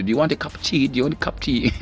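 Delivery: imitated tea offer. Asking everyone in the office, imitated polite offer. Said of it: "uchibvunza munhu wese kuti".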